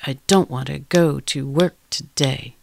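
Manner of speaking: another rhythm. Shown as a demonstration. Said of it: "in a million different rhythms".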